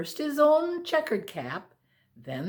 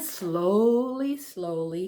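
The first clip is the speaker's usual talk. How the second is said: slowly; 3 semitones lower, slower than usual. A narrator's reading. Peddler walks back slowly.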